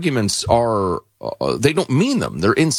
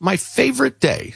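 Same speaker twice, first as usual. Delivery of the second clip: sweet storybook voice; 13 semitones higher than usual. Acted. Pooh quote read sweetly.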